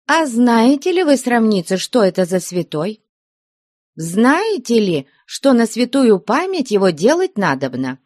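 put-on nun quizzing mischievous girls; testing old nun. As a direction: quiz them like a stern nun.

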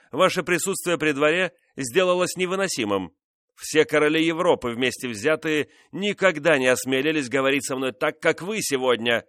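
angry king. Acted. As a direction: berate her, swelling to shouts on the king's name. King's angry tirade at Montespan.

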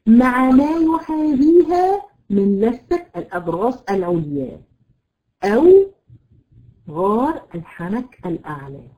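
slow, measured recitation of the definition, word by word; slow dictation. Shown as a demonstration. Teacher to students, dictating the definition slowly. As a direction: recite the rule slowly so students can write it. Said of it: "تاني، تاني".

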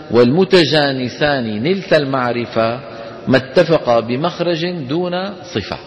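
slow measured verse reading; reciting a didactic poem. Acted. Teacher reading the teaching poem aloud. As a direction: read the lines slowly, in metre.

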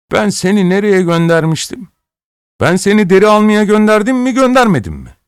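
a master raging at his apprentice; angry shouting master. A narrator's reading. Master berating injured apprentice, high furious shout.

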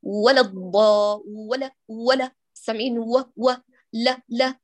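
ولا الضا with letters thrown together; rushed letters. Shown as a demonstration. Teacher mimics rushed careless recitation. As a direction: tumble ولا الضالين letters onto each other. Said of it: "يعني تقول هكذا".

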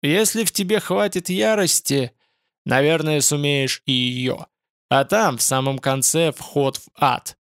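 thundering spirit voice; booming demon voice. Acted. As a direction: thunder it, ominous. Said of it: "голос Бурамы прогрохотал". (грохочущий голос Бурамы)

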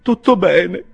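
high-pitched, unconvinced answer; feeble reply. A narrator's reading. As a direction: answer in a high, strained attempt at reassurance. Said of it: "rispose mister Winkle debolmente". (risposta debole, a voce acuta)

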